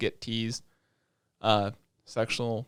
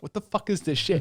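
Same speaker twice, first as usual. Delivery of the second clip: incredulous exclaim; 5 semitones higher than usual. Retold or imitated. Disbelief at anime trope.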